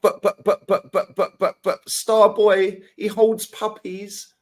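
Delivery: mock fanboy voice. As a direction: mimic a gushing fan to ridicule him. Mocking fans' praise of Saka.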